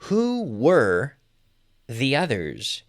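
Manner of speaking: drawn-out question, split by a pause; slow model question. Shown as a demonstration. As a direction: model the question carefully for learners. Teacher models the translation slowly.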